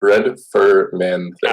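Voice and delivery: slow, questioning repeat; puzzled echo. Acted. Trying to translate what Fleabite means, puzzled. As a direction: sound it out slowly, rising at the end.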